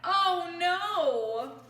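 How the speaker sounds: loud startled exclamation; alarmed. Acted. Reading to children, a loud alarmed cry. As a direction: gasp it out in alarm. Woodpecker tapping Kevin's tree.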